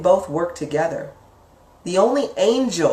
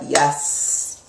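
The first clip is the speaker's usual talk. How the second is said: hissed, drawn-out yes, then hungry pleading; lightly voiced devil feeding on fear; greedy subconscious; much slower than usual. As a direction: play a hungry little devil, relishing it. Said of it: "your subconscious over here is now like".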